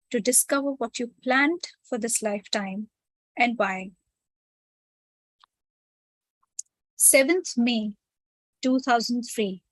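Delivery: measured read-aloud with pauses between phrases. Real, not acted. Reads the chosen text aloud to group.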